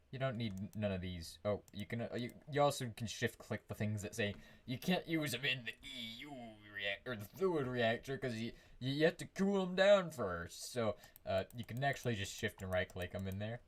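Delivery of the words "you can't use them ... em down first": pirate voice. Acted. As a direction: talk like a salty pirate. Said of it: "I just felt I sounded like a pirate".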